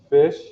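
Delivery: Fish with the sh sound spelt out clearly; example word demo. Shown as a demonstration. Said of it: "watch this".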